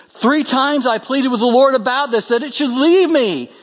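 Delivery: high-pitched, emphatic Bible reading; forceful scripture reading. Acted. Preacher reading Paul's plea about the thorn, forceful. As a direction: read it out with mounting urgency, pitch climbing.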